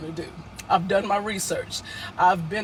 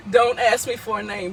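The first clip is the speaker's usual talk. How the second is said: laughing; 3 dB louder than usual. Real, not acted.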